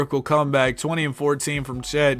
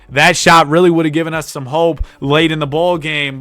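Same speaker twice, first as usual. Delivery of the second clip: voice crack; 5 dB louder than usual. Real, not acted. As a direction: voice cracking mid-sentence. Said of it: "you gotta excuse the voice crack".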